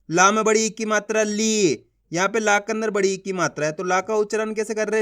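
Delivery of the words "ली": ली with the ee drawn out; teacher's drawn-out ली; stretched long ee. Shown as a demonstration. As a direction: hold the vowel in ली, then let it fall. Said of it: "खींच के पढ़ा जाता है".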